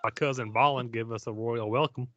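mock Southern Gimli; deep Georgian accent. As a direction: play Gimli as a Georgia boy. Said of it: "Gimli as a dwarf with a deep Georgian accent".

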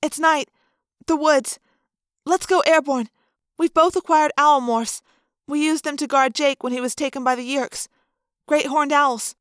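a hint of young girl planning; Cassie thinking. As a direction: think it through aloud. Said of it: "Cassie concentrated".

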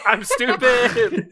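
very slow, drawn-out mock Bella; Bella's line. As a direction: drag it out like a dopey confession. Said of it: "Say the line, Bella".

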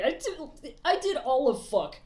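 offhand and unbothered, barely caring; casual tone. Retold or imitated. Wei Wuxian shrugging off the accusation, offhand and casual. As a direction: shrug it off lightly, no weight behind it. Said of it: "in, like, the most casual tone".

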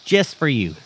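high, lilting fake Irish; mock Irish accent. Leprechaun telling Colin a joke, in mock Irish accent. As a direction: tell it in a put-on Irish brogue.

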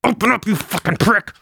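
high yelled insult through a door; shouted demand. Acted. Player yelling at his brother to open the door. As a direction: pound on the door and yell. Banging on the panic room door.

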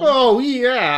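high pious preacher voice; a high, kindly priest greeting; Armadillon. Acted. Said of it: "It's Father Armadillo Don now".

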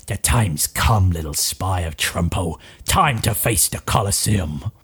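low, slow, menacing guard voice. Acted. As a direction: loom over the prisoner. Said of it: "two guards who goes".

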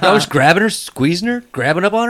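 high, loud giggling joke; cracking up while telling it; laughing. Real, not acted. Joking about grandma to friends, laughing loud and high.

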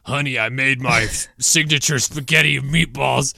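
lightly voiced wife with a man's voice; a hint of a mannish wife calling out; wife's man voice. Retelling Shaq's wife over a live mic: lightly voiced. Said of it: "his wife's man voice say".

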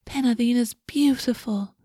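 dreamy. A narrator's reading. A girl admiring her baby sister, dreamily. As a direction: say it as if daydreaming about her. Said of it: "Crielle said dreamily".

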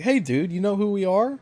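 put-on bully the waiter like a drunk gangster; rowdy thug. Yakuza accosting the waiter.

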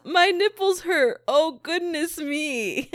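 high, hammed-up complaint slowing at the end; imitated movie quote. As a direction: mimic a dainty cry of dismay. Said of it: "Oh, he says".

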